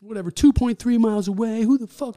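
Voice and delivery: high, shouted indignation; angry customer. Retold or imitated. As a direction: rant loudly as an outraged customer. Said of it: "huffing and puffing".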